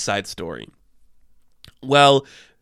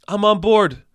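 "I'm on board" said higher and louder, eager; excited repeat; 7 semitones higher, 4 dB louder than usual. Shown as a demonstration. Vlogger cheering for the voodoo witch casting, higher and louder. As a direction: cheer "I'm on board" the second time with a jump up in pitch.

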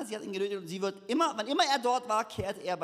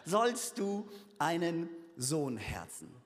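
slow, relishing sollst du einen Sohn herzen; savoured quote; 3 semitones lower, slower than usual. Shown as a demonstration. Preacher savouring the odd wording, slowly. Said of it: "ich liebe diese Wortwahl hier".

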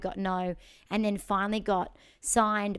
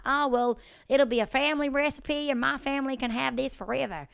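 put-on Southern accent; 4 semitones higher than usual. Imagined chicken man giving up on his recipe, Southern accent. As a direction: play a resigned Southern cook. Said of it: "he might not have been Southern".

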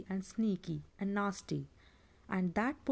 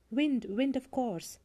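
excited; 4 semitones higher, slower than usual. Acted. Bilbo solves riddle.

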